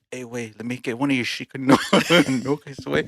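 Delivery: mock Mexican accent, breaking into laughter. Begging a buddy for a nugget, jokey Mexican accent. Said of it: "We got different accents now".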